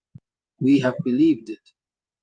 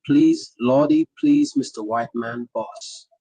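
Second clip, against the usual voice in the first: lightly acted servile plea, trailing away; mock begging; 3 semitones higher, slower than usual. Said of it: "running to him begging".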